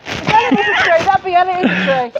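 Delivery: a cheeky little tree. Pretend. Tree voice teases.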